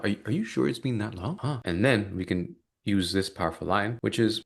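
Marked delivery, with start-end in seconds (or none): 0.0-1.6 gently puzzled, rising doubt; curious child. Shown as a demonstration. Coach to prospect, leaning in with curious doubt. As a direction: lean in like a curious kid. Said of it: "again, curious child".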